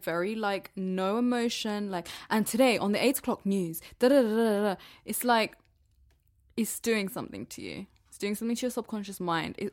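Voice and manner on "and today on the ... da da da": flat, authoritative news read, lightly voiced; mild mock of a monotone news presenter; monotone newsreader. Shown as a demonstration. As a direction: recite like an emotionless eight o'clock anchor. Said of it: "very monotonal, very authoritative".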